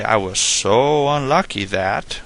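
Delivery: drawn-out "so" before "unlucky"; slow storyteller's lead-in, leaning on "so"; joke-opener emphasis. Shown as a demonstration. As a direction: stretch "so" slowly, setting up a joke. Acted opening of a joke.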